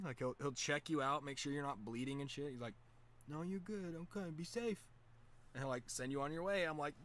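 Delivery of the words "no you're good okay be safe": high-pitched, reassuring imitation; reassuring helper. Ted sending a fallen skater on his way, high and reassuring.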